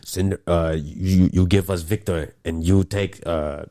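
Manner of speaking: lightly put-on Russian accent; playful Russian accent, slow at the end. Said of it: "I love your Russian accent".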